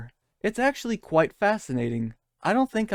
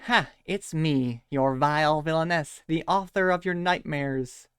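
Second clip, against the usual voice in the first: slow, hammed-up villain boast; lightly voiced theatrical villainess; a touch of cartoon menace; mocking Jinx. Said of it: "Jinx reveals herself and goes".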